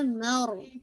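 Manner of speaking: मर with the r settled and held; firm raa. Shown as a demonstration. Teacher models the r, firm articulation. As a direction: rest on the r of मर. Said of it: "रा को आप थोड़ा सा जमाओं".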